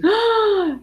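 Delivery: high delighted gasp; excited gasp. Real, not acted. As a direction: suck in breath in happy surprise. Reacting to the New Zealand viewer.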